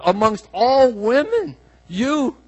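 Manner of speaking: slow, high, emphatic exclamation; bold proclamation. Retold or imitated. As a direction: proclaim it with rising excitement. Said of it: "It's a bold proclamation".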